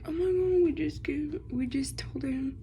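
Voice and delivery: hushed squeal of the gossiping friends; excited whisper. Real, not acted. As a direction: whisper starting high and excited. Whispering the story.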